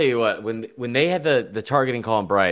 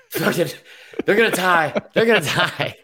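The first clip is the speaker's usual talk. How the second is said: laughing mock caller; 10 semitones higher than usual. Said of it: "be like".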